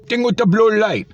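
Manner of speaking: exasperated mock. Mocking the cashier's words back.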